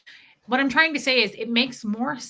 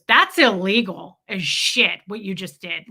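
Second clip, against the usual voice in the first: retold shaming; 3 semitones lower, 5 dB louder than usual. Woman retelling husband's scolding over opened mail, shaming. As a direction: imitate a husband scolding with heavy emphasis. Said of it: "Like, shaming me".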